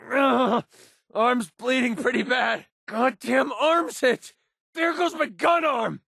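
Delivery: high strained voice of a wounded fighter; wounded cries. Acted. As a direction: cry out through the pain of wounds. Companion badly wounded in combat.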